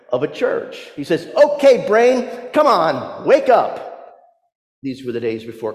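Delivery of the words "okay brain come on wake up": louder, higher wake-up call to oneself; rally your own brain like a sluggish team; rousing pep talk. Acted. David calling his insides to a meeting, rousing pep talk. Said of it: "holds a meeting of his insides".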